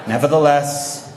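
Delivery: slow, dignified mock pioneer vow; hammed-up noble restraint, laughing through it; mock solemn resolve. Teen answering parents quotes the pioneer journal, slowly and solemnly. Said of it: "we're gonna use Brother Hyde's pattern".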